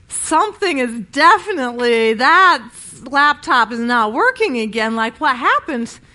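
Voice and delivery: a mom blurting out at a broken laptop; exasperated outburst. Retold or imitated.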